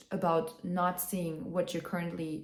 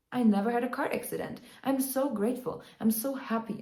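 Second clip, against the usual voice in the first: mildly excited, higher-pitched gushing; excited gratitude; 5 semitones higher than usual. Acted. Car owner talking herself into loving her old car, mildly excited. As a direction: play grateful delight with a raised pitch. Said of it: "you're just so excited".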